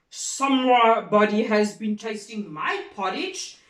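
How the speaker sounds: a loud papa bear, lightly voiced; great big bear voice. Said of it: "in his great big voice".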